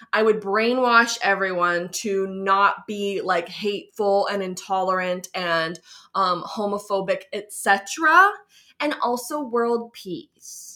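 slow, sweet beauty-queen answer; poised pageant answer. Pretend. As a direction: answer like a contestant on stage. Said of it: "my pageant answer is".

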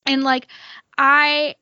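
real choked-up gratitude, faltering; starting to cry, words breaking off; tearful. Real, not acted. Podcaster thanking friends for their support, tearful. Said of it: "I don't know why I'm crying".

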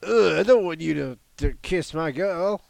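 put-on a tortoise grumbling about his girl; Turtle voice. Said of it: "That's my new Turtle voice".

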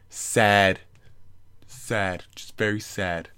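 lightly voiced mock president, slow and drawn out; a hint of a boastful politician; imitating the president. Commander-in-chief announcing a small sad Cinco de Mayo, lightly imitated.

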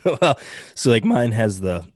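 a cracking, breaking voice. Real, not acted. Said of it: "my voice just cracked there".

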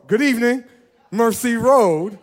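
a steady friendly call-out; calm greeting call. Shown as a demonstration. Pastor first greets the congregation in a moderate call. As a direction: greet them at an easy pace, stretching Road. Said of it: "I say".

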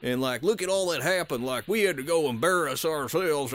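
put-on voice of mock scolding; stern reprimand. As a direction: imitate a family elder telling someone off. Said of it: "he was sternly reprimanded".

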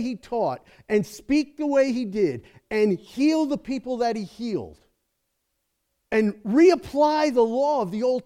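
fervent pulpit preaching, high and loud; full-force preaching. Acted. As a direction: preach it out to the whole room, building.

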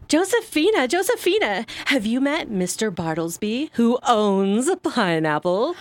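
trilling summons across the room; hammy stage actor. Acted. Mother calls her daughter.

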